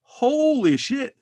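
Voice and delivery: slow, high, awed gasp of wonder; drawn-out stunned praise; mock amazement. Mock amazed reaction to singing.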